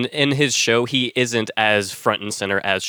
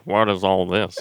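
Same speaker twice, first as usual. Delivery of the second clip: Johnny Carson; 5 semitones lower than usual. Acted. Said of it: "Imagine Carson seeing all of that".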